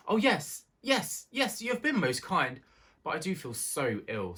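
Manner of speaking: high, anxious little mouse voice; a small country mouse, politely pleading; timid little mouse. A narrator's reading.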